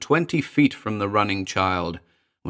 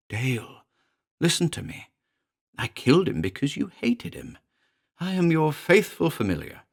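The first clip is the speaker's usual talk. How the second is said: high, cold little creature voice; a small demon taunting coldly; a lightly voiced cold imp; 4 semitones higher than usual. Demon familiar speaks.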